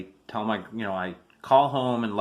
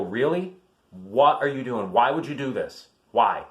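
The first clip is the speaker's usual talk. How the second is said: retold incredulous challenge, louder on why; exasperated disbelief; 4 dB louder than usual. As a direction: question him in pointed disbelief. Retold confronting of grandfather.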